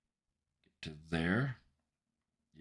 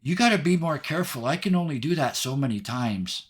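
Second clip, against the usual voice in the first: high little character voice, quick and loud; Hope; 7 semitones higher, 5 dB louder, faster than usual. Acted. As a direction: scold in a small, high-pitched voice. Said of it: "Hope looks up at you and blinks and says".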